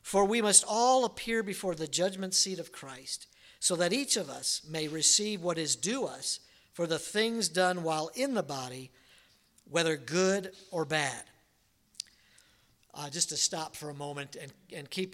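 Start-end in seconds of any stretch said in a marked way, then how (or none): 0.0-11.2 measured sermon reading of a Bible verse; scripture reading. Acted. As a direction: read the verse with pulpit weight. Reads scripture passage aloud.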